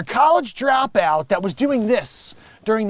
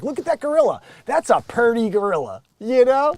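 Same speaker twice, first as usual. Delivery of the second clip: mock onlooker; 5 semitones higher, 4 dB louder than usual. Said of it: "some guy who'd be like".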